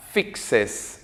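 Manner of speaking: "Fixes" with a distinct extra es syllable; clear ES ending. Shown as a demonstration. Teacher modeling third person for students, "Fixes" with clear es ending. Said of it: "esta E S que suene fuerte y claro".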